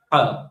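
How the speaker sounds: "ha" with a pharyngeal h from the throat; ancient throaty ha. Shown as a demonstration. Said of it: "this letter was pronounced as".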